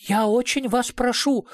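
pleading in a high voice; the director begs the investigator, high pleading; begging. A narrator's reading. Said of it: "взмолился Калюжный".

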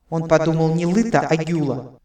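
echoing voice in the head; telepathic clarification. A narrator's reading. Mind reader clarifies for her partner, echoing thought. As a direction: correct it matter-of-factly, with echo. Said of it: "тут же уточнила Нолвенде".

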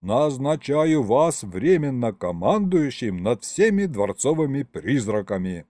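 slow, solemn appointment. A narrator's reading. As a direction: announce it like a decree. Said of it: "торжественно начал я".

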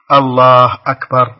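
"الله أكبر" with the vowels drawn out slowly and loudly; imitating commoners who stretch "الله أكبر"; wrongly stretched takbir. Caller imitating commoners who stretch takbir, drawn out. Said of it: "من العوام من يمد".

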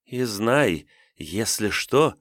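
slow, drawn-out sly threat; slow theatrical villain menace. Acted. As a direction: let the warning hang ominously. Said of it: "зловеще ухмыльнулась злодейка".

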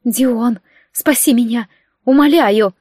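groaned plea for rescue; pleading, lightly moaned; moaning plea. Acted. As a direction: beg through a moan, rising at the end. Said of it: "простонала".

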